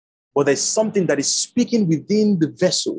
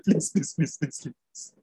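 pleading; 2 semitones lower, 8 dB quieter, slower than usual. Retold or imitated. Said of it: "He said".

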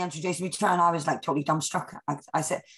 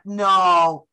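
louder, drawn-out disbelieving reply; retold disbelief; 6 dB louder than usual. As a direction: react in mock astonishment, louder.

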